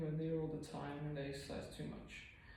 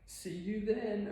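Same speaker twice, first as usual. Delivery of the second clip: slow sign-off; 4 semitones higher, 7 dB louder, much slower than usual. Real, not acted. Signing off the video.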